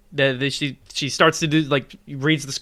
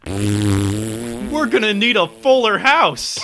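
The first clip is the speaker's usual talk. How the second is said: hammy announcer; much slower than usual. Pretend. Mock sitcom announcer line.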